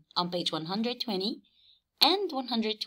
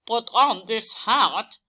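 lightly voiced louder pig; Pig's voice; 4 dB louder than usual. A narrator's reading. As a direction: offer the hat as Pig. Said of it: "Pig told Horse".

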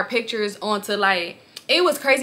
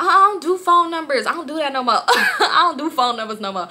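breezy, laughing excuse; dodging his request, laughing; laughing brush-off; 5 semitones higher than usual. Retold or imitated. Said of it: "I'm like".

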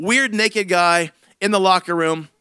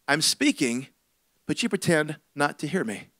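a lightly voiced, lower, gentle rebuke; voice of the Holy Spirit; 5 semitones lower than usual. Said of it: "spoke into me".

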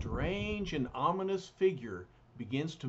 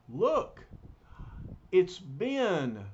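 higher, louder alarmed call; excited call; 4 semitones higher, 4 dB louder, much slower than usual. Acted. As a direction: point and cry out his name. Sue spots Ben arriving.

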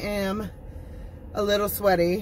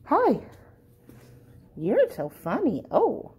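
pet talk; 4 semitones higher than usual. Real, not acted. Owner greets the shelter cats in high baby talk. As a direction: gush at the kitten sweetly.

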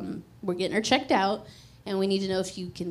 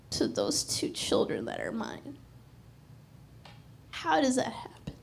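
awed whisper; 3 semitones higher, 6 dB quieter than usual. Real, not acted. Mother telling the church about her dream, whispering in awe. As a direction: drop to a near whisper in wonder.

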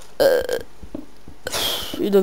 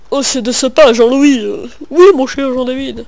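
mock pompous address; 3 semitones higher, 5 dB louder than usual. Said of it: "Non, je rigole".

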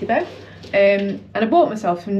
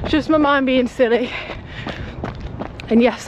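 slightly breathy mid-run chat; while jogging; 2 semitones higher than usual. Real, not acted. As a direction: talk steadily while running. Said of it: "I've been going for ten minutes".

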